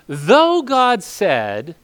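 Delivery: drawn-out words that rise and hang unfinished; very slow, rising, cut off; slow cut-off quote. Shown as a demonstration. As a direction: drag it out and leave it hanging mid-sentence. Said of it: "he's literally in mid-sentence".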